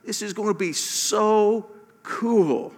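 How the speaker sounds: like a friend who can't wait to tell; playful hyped-up voice of God; excited buddy God. Retold or imitated. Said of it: "It's almost like".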